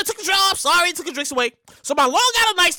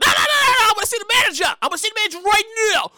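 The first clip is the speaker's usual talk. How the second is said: demanding shout; 3 semitones higher, much faster than usual. Retold or imitated. Demanding the manager.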